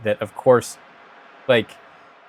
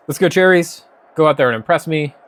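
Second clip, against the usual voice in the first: hype cheer; 4 semitones higher, 4 dB louder than usual. Real, not acted. Hyping team before kickoff.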